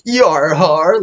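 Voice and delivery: hearty pirate yar har, rising. Retold or imitated. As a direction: growl it like a cartoon pirate. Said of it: "he goes".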